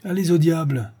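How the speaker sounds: a touch of angry outburst; understated angry cry to the stubborn girl; mild anger. Acted. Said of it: "s'écria le général avec colère".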